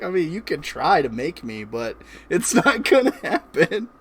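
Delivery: put-on Irish accent. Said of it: "that stupid accent that you're doing right now".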